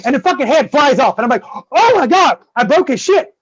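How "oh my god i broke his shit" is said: shocked panic. Retold or imitated. The gnome's head flies off.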